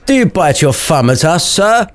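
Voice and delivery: high-pitched challenge, no real volume; theatrical mock shout, rising at SIR. Abraham challenging Samson over the thumb, high mock shout. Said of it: "shouted Abraham".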